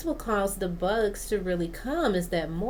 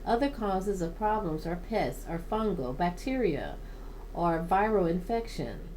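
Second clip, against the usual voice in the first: measured informational read-aloud; steady reading from a guide. Real, not acted. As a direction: read it out from a plant-care book. Reads a plant guide aloud.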